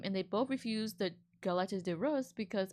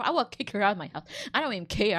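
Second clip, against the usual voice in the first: real anger; 5 dB louder, faster than usual. Real, not acted. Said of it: "'cause I'm so pissed right now".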